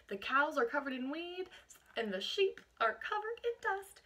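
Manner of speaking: put-on reading a picture book aloud to children; lively read-aloud, naming each chore; picture-book narration for a class; storybook reading.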